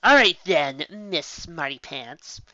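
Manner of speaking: slow, mocking sneer; mock her cleverness; sneering creature, trailing off slow. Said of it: "sneered the yellow-eyed creature".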